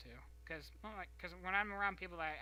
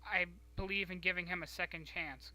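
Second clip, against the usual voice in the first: defiant reply; 4 dB louder than usual. Retold or imitated. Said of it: "I went".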